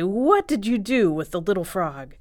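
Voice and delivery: loud storybook reproach; accusing question. Acted. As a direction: demand an answer from the culprit. Everyone accuses the big frog.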